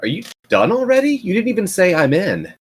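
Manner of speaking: teasing. Acted. Max teasing during the call.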